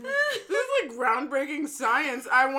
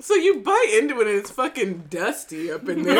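laughing. Real, not acted. Laughing while describing the snack.

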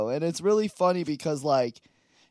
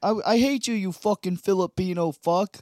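loudish, higher tough Boston guy; mock Boston accent; 4 semitones higher, 4 dB louder than usual. Comic playing Wahlberg as a Boston guy, mock Boston accent. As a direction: put on a brash Boston accent. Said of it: "Yeah, they're Boston".

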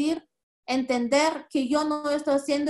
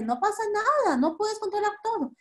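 calming; 7 semitones higher, faster than usual. Shown as a demonstration. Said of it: "Tranquilízate".

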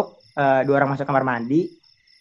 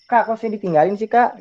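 higher, mildly aggrieved plea; retold complaint; 5 semitones higher than usual. Junior left behind protests to the older friend, retold complaint.

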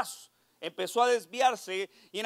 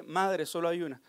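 laughing punchline; 5 semitones lower, 3 dB quieter than usual. Acted. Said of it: "abrí la nevera y dije".

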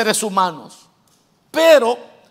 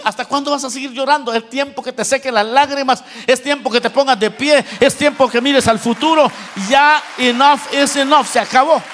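the Lord's urging. Retold or imitated. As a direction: build it up to a firm "enough is enough". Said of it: "el Señor hoy le viene a decir".

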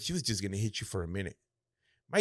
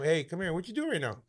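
stern dad calling; 6 semitones higher than usual. Retold or imitated. Dad voiced calling him over.

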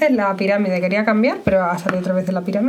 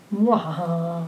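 evil little cackle, low and soft; mustache twirling villain; 5 semitones lower, 6 dB quieter, much slower than usual. Pretend. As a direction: gloat with a villain's laugh. Mom gloats about eating apple.

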